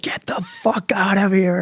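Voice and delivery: high, slow, drawn-out mock dismissal; imitating helpless laughter. Board throwing out the failed Marine, imitated as if overcome with laughter. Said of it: "screaming of laughter".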